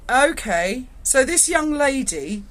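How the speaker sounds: mock-serious sergeant. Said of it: "he went".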